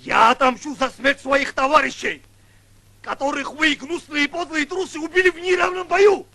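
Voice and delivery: vengeful oath. Acted. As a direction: vow rising to fury.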